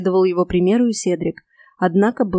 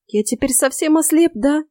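small, high, fearful question; quavering, pitiful worry; trembling little voice; 7 semitones higher than usual. A narrator's reading. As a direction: ask timidly, afraid of the answer. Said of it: "дрожащим голоском спросил Рой".

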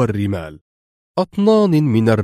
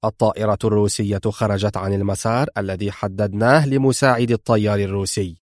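lower, clipped stern report; same sternness; 3 semitones lower than usual. Acted. Mr X reporting the Russian plane to Laura, stern. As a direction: deliver it coldly and firmly. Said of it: "أجابها بنفس الصرامة".

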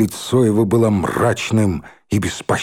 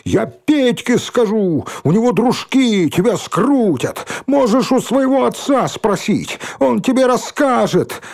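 much higher, threatening cries while running; shouted threats; 11 semitones higher than usual. Acted. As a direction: yell threats as you flee. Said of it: "выкрикивал на ходу слова угрозы". (угрозы на бегу, выкриком)

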